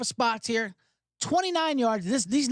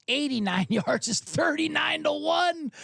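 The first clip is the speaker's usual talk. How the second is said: laughing; 6 semitones higher, slower than usual. Real, not acted. Disbelieving laugh at huge odds.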